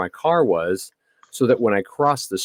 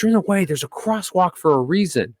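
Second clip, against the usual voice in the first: high, snippy imitation of the lady; high mocking Karen scold; 8 semitones higher than usual. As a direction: mimic the scolding driver mockingly. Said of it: "starts screaming at me".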